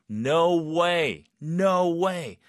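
high, thrilled exclamations; excited. Shown as a demonstration. Teacher reacting to a friend's Harvard acceptance, excited. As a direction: let the excitement out on "no way". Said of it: "느낌 그대로 표현하시면 돼요".

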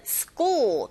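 "school" with a tense, unaspirated k; tensed k sound. Shown as a demonstration. Teacher shows tensing in "school", k tensed. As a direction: say "school" with a hard Korean-style ㄲ. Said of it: "된소리 현상".

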